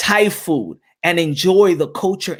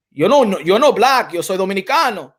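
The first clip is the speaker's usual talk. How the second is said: higher, emphatic mock Dominican Spanish; imitating Dominicans; 3 semitones higher, 4 dB louder than usual. Imitating Dominicans explaining their identity, insistent mock protest in Spanish. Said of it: "when Dominicans be like".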